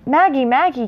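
faint distant call. A narrator's reading. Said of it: "came a faint call from somewhere".

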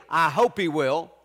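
unsure, just wishing it; hopeful maybe. Retold or imitated. Preacher mocking a half-hearted believer, unsure. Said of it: "He didn't say".

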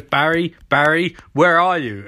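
mock-menacing phone call; lightly put-on threatening tone; dangerous voice. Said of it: "And says in really dangerous voice".

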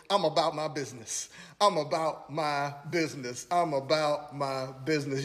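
soft, low repeated title; preacher announcing his sermon subject, hushed. Shown as a demonstration. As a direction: let the title land quietly, three times. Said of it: "I wanna preach using as a subject".

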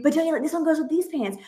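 quick, pushy sales pitch for a shirt; mock coaxing mom. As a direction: talk him into it fast. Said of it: "trying to convince him".

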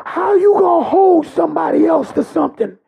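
shouted, rising sermon climax that keeps pushing; full-force preaching. Acted. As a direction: preach it hard, calling out to the congregation.

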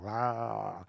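drawn-out, half-hearted "rah"; imitated monster noise. Freddy's tongue comes out of his mouth, mock roar. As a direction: imitate a creature's noise without pushing it. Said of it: "He's like".

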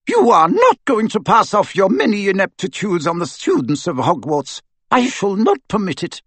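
high, firm, cutting; stern professor rebuking. Acted. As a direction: put him in his place. McGonagall rebuke.

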